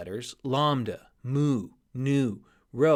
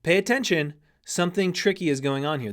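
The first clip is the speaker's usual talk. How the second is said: louder, raised warning to yourself; alarmed inner voice; 5 semitones higher, 4 dB louder, faster than usual. Retold or imitated. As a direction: sound the brain's alarm bell. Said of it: "in your brain of going".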